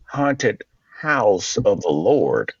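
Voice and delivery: lightly Southern preacher's pitch; a touch of Southern church leader selling the idea; Southern accent. Retold or imitated. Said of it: "I have to have a Southern accent".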